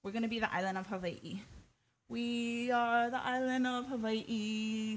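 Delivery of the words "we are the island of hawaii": slow, drawn-out, mock solemn declaration; hammed-up slow grand announcement; mock grand pronouncement. Shown as a demonstration. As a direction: proclaim it slowly like a grand joke. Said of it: "something like this. Just kidding".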